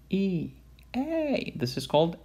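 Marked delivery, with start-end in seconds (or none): 0.1-0.5 E said as a plain ee vowel; plain E sound. Shown as a demonstration. Lecturer showing the plain E the patient says. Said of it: "you hear it A". 1.0-1.5 A said as an ay vowel, higher pitched, nasal bleat; E heard as A. Shown as a demonstration. Lecturer imitating how E sounds through the stethoscope. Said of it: "you hear it A".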